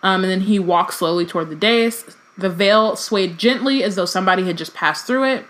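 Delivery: reading a novel aloud, even and measured; story narration. Acted. Reading Harry Potter aloud to a podcast co-host, narration voice. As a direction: read it like an audiobook chapter.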